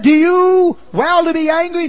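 high, loud, booming divine question; voice of the Lord. Acted. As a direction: call down as God questioning. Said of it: "Then the Lord said".

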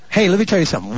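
usual speaking voice

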